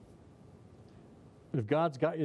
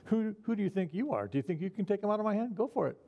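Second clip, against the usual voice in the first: higher, challenging voice of God; 7 semitones higher, faster than usual. Acted. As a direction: dare them, mildly mocking. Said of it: "he's asking".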